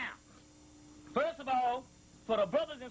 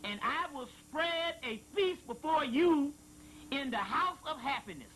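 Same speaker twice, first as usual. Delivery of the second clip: scripture reading; 3 semitones higher than usual. Acted. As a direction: draw out each word like prophecy. Reading a sacred passage aloud.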